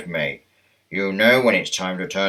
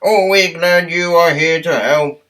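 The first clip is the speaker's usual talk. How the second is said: higher, louder cheerful tram voice; raised welcoming tram voice; friendly tram Toby; 8 semitones higher, 6 dB louder than usual. Acted. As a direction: greet him like a kindly old tram.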